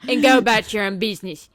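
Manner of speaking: loud, hammed-up mock warning; exaggerated imitation. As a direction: imitate her, punching each warning hard. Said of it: "she's not that bad".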